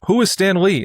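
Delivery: hammed-up baffled radio host; outraged New York sports radio guy; Mike Francesa. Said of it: "And he, he just".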